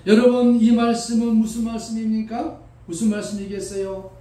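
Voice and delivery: calling out. Real, not acted. Pastor calling out to the congregation, loud. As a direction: rouse the hall.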